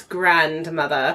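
amateur British accent on "grandmother". Shown as a demonstration. Host showing her mom's chosen name, in an attempted British accent. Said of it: "like a British accent".

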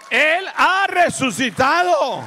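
angel's proclamation. Acted. Angel tells the women at the tomb, loud slow proclamation. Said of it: "Y le dijo".

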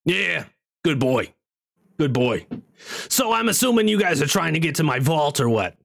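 lightly voiced comic wizard; rough comedian impression; Gilbert Gottfried. Wizard sizing up the vault seekers, imitating Gottfried. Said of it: "sounds like Gilbert Godfrey".

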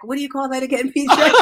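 ordinary talk, nothing marked

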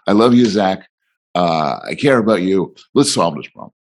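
steady, reassuring father; a hint of a calm dad reassuring his son; calm and loving. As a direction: soothe him and steady him. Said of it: "I was calm".

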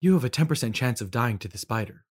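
lightly robotic, even monotone; a hint of a computer reciting odds. Robot companion gives the player odds, lightly mechanical. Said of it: "robotic sounding voice".

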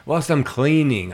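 lightly put-on, high Argentinian accent; half-hearted Argentinian accent; attempted Argentinian accent. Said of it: "trying to do his accent again".

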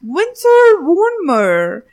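stretched Frenchy "Winter warmer"; silly French accent. Pretend. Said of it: "French accent".

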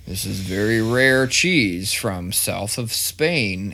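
slow, mock-posh cheese seller; mock fancy pitch. Dad fooling his son about fancy cheese, mock-posh slow pitch. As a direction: oversell it slowly like a fancy deli clerk. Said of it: "and you're like".

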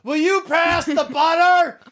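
high mock shout, drawn out; imitating her loud talk. Parent mimics child asking for butter at the table, mock shouting. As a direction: holler it at full pitch, mimicking an over-loud kid. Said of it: "she'll be like".

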